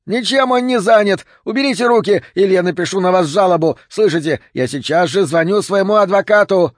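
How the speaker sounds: high, loud squealing protest; визгливые вопли. A narrator's reading. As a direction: screech threats at the cops. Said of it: "Визгливые вопли бродяги". (визгливо вопить, возмущённо)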